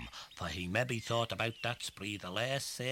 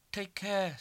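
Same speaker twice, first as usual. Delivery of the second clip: calling out; 10 semitones higher, 6 dB louder than usual. Acted. Betsy calling after.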